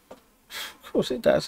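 slow, soft, breathy aside; sarcastic whisper. Real, not acted. Player after the food tastes bad, a slow sarcastic whisper. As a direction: mutter it to yourself, slowly. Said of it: "Yeah, of course it does".

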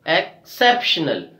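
"Exceptional" split after EX, CEP stressed. Shown as a demonstration. Teacher demonstrating third from last, stressed "exCEPtional". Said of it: "we are stressing on C E P".

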